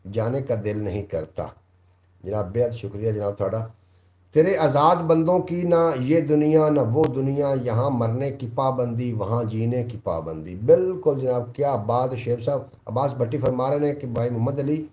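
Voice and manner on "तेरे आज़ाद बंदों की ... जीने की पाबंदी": raised declaiming couplet; poetic recitation. Acted. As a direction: deliver the Urdu couplet like at a mushaira.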